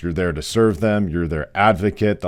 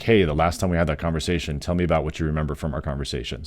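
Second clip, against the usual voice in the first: understated, sincere open question, getting softer; genuine asking; 3 semitones lower, 4 dB quieter than usual. Acted. Nurse checking a patient's memory of their talk, genuine. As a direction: ask gently, as if truly curious. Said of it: "Just be very genuine".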